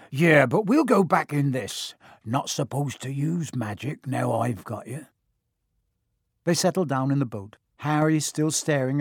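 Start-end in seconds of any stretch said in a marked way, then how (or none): 0.1-5.1 lightly voiced big, bluff giant; a gruff, friendly giant, lightly done; Hagrid voice.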